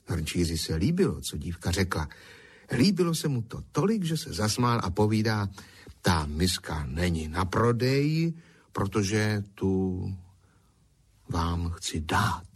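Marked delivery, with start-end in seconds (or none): 6.0-12.5 slow, tender offer; tender gift. Acted. Potter offers the girl the bowl, slow and tender. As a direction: hand it over gently, slowly.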